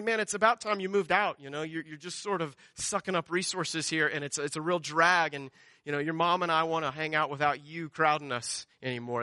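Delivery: lightly voiced weary dad, a little low; mock a dad tired of his freeloading kid; fed-up father. Mimics a fed-up dad, which God isn't.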